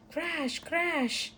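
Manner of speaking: high, dramatic crash call; spring the noise on the listener; crash sound effect. A narrator's reading. A crash wakes everyone.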